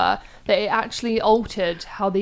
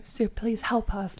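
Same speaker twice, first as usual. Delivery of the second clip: soft plea; 6 dB quieter, slower than usual. Retold or imitated. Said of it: "he's like".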